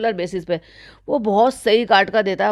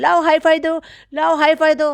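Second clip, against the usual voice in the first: mocking madam; 6 semitones higher than usual. Vlogger imitating madam asking her son for a high five, high coo. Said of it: "कहती है".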